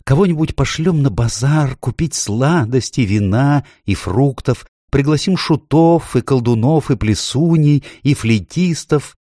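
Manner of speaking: high, eager listing; excited faun. A narrator's reading. Faun planning a pretend feast, excited. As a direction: rattle off the feast plans in a high voice. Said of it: "взволнованно проговорил Фавн".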